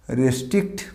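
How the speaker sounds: রেস্ট্রিক্ট opening with "re"; common mispronunciation. Shown as a demonstration. Teacher showing what learners say, রেস্ট্রিক্ট starting "res". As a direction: say রেস্ট্রিক্ট with an e in the first syllable. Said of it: "This is not restrict".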